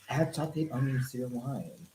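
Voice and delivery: a hint of even, automated voiceover; TikTok voiceover voice. Cohost mocking up a TikTok recipe hack, light voiceover voice. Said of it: "Do that voiceover voice".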